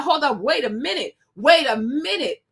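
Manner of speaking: from calm to a firm call; speaking up. Retold or imitated. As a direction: build it up to a stand. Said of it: "they don't speak up like".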